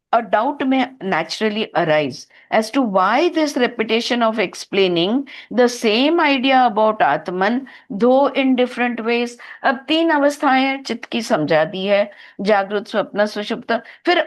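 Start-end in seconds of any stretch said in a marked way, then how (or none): 0.1-9.3 slow, deliberate reading from a text; commentary read-aloud. Acted. Teacher reading the mantra's translation aloud, slow formal read-aloud. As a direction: read it out word by word, slowly. Reads English commentary to class.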